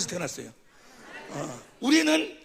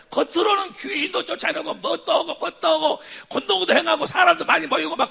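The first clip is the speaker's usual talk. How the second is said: higher, louder, shouted rebuke; preaching shout; 8 semitones higher, 4 dB louder than usual. Real, not acted. Preacher shouting at false ministers, full force. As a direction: blast the empty show of ministry. Preacher rails against hypocrites.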